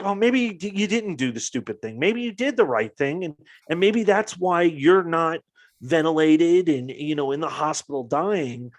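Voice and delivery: a hint of consoling a sick friend; comforting. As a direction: retell how you gently reassured a sick friend. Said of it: "trying to be, like, comforting him".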